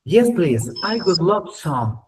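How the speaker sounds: slow, careful English model reading. Shown as a demonstration. Teacher modelling the line slowly for students. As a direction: read it out slowly for the class to copy.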